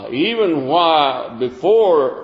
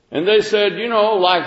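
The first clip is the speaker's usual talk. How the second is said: ordinary talk, nothing marked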